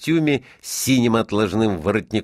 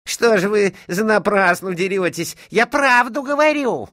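put-on high-pitched whining boyish protest; tearful exclamation; 13 semitones higher, 4 dB louder than usual. A narrator's reading. Boy smacked by his mother protests, tearfully. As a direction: wail your innocence as if near tears. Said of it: "слезливо воскликнул Вася".

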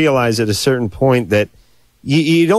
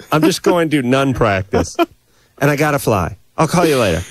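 breezy brush-off; 2 semitones higher than usual. Retold or imitated. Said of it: "I don't say cheerleading practice".

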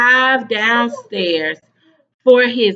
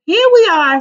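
announcing; 6 semitones higher, 7 dB louder than usual. Acted. Teacher announcing.

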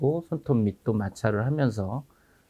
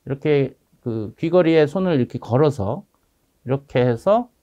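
muffled behind surgical mask; through a face mask. Real, not acted. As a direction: mask over mouth and nose. Seen 2: Blue surgical mask covers nose and mouth throughout the labelled span.

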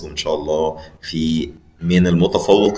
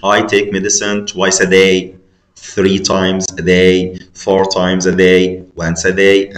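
twice, three times, four times, once a day, slow and spaced; slow drill; much slower than usual. Shown as a demonstration. Teacher listing the patterns for the class, slow and clear. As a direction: lay out each pattern slowly. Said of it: "فأنت مثلًا بتقول".

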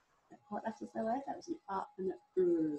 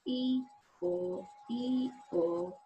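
donkey hee-haw sounds; 4 semitones higher, much slower than usual. Shown as a demonstration. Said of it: "we can make our donkey ears and we go".

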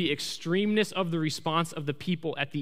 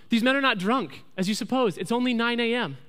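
higher-pitched, emphatic public declaration; Peter addressing the crowd; 5 semitones higher than usual. Retold or imitated. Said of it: "he stands up and he says".

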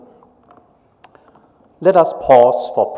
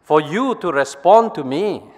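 higher, impatient question; impatient brain two; 8 semitones higher than usual. Acted. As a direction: brain two chiding brain one. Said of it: "Brain two".

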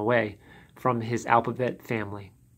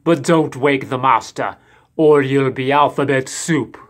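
creaky voice; 6 dB louder than usual. A narrator's reading. Creaky servant warns visitors.

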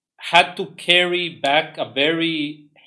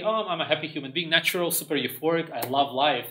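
softer, fast, mock-euphoric; mock happy; 5 dB quieter than usual. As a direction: gush like a carefree caveman. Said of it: "they're all happy".

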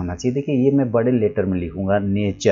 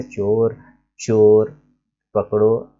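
चोर, चोर, पकड़ो with a pause between each; word by word; much slower than usual. Shown as a demonstration. Teacher writes the comma version, pausing between चोर चोर पकड़ो. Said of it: "कोमा लगा देंगे ऐसे".

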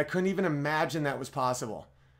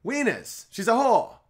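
higher mock Cockney punchline; 7 semitones higher, 3 dB louder than usual. Mock Cockney, explaining the rhyming slang. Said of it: "weird thing where they'll be like".

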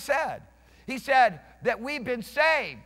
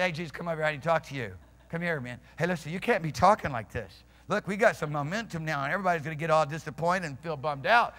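lower-pitched, casual man-to-man aside; confidential Peter; 5 semitones lower, faster than usual. Retold or imitated. Peter pulling Jesus aside to object, confidential. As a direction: take him aside and talk low, casually.

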